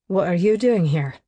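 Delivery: just a hint of edge, kept polite; mild bite. Declan to an unwelcome guest, a mild bite. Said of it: "with only a mild bite to his tone".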